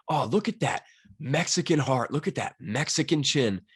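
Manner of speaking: lightly imitated commentator's call, slow and emphatic; a touch of impressed fight commentary; Joe Rogan. Host imitating a commentator praising a Mexican fighter, a light impression. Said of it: "Joe Rogan always hits him with the".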